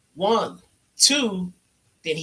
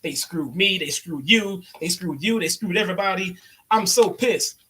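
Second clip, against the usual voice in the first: mock angry J R. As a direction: vent like a cheated commentator. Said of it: "He's like".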